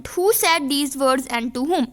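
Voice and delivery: slow, careful reading of the text line; slow dictation read. Shown as a demonstration. Teacher to students, reading the passage slowly. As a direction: read it out slowly for the class to copy.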